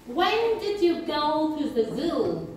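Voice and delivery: slow model sentence with stress on "when", "go" and "zoo"; stressed key words. Shown as a demonstration. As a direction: punch "when", "go", "zoo", keep the rest light. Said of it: "Listen and repeat".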